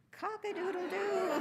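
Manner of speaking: loud, high-pitched rooster crow. A narrator's reading. Rooster crows with the listeners' help, very loud. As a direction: crow it out at full voice. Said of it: "and then very loud. Help me here".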